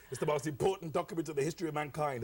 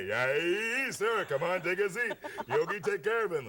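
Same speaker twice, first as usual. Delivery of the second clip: Yogi Bear voice; 3 semitones higher, 3 dB louder than usual. Acted. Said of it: "used to be Yogi Bear".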